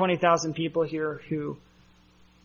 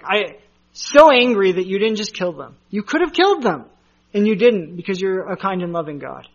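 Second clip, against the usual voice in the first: imitating angry Jonah; 3 semitones higher, 6 dB louder than usual. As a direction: whine at God like a sulking prophet. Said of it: "That's exactly what Jonah's like".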